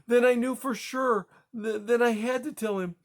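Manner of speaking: high, tearful, building to hysteria; rising hysteria. Acted. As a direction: let the panic climb with each clause. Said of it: "Her voice rose in hysteria".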